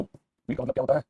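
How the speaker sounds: slow, drawn-out question ending on a rise. Shown as a demonstration. Teacher repeating the question for students, slow and rising. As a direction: stretch out wheat का मतलब क्या होता है and lift the end. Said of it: "और wheat का मतलब क्या होता है?".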